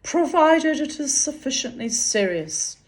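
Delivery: measured literary reading aloud; story narration. A narrator's reading. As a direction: read the story out with deliberate phrasing. Reads fiction aloud.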